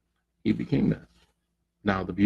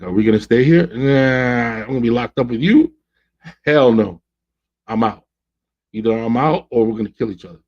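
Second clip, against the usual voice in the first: louder, incredulous outburst; indignant refusal; 3 semitones higher, 4 dB louder than usual. Acted. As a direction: act out someone fed up and refusing to stay. Acting out fed-up couple at lockdown.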